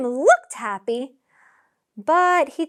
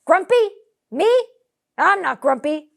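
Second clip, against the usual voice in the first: indignant denial; 7 semitones higher, 9 dB louder than usual. Acted. Jim indignantly denies being grumpy.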